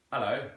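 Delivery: "Hello" with no H; East London pronunciation. Shown as a demonstration. Teacher demonstrating East London, "Hello" with dropped H. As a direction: say "Hello" as Cockney "'ello". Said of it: "they drop the H".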